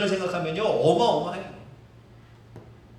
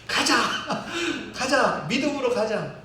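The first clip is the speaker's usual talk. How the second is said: high, laughing rally of 가자; laughing hammed-up rally cry; excited cheer; 4 semitones higher than usual. Faithful side cheers.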